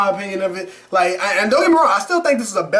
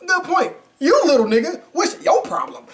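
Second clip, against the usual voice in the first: higher, hammed-up mock reply ending in a shout; mock retort; 6 semitones higher than usual. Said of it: "he looked at him like".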